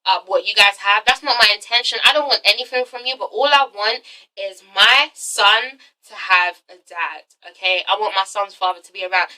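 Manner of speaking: softening, lowering voice of a gentle plea; sweet pleading. Retold or imitated. Renee asking for her son's father, sweet pleading. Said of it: "Renee is such a sweetheart".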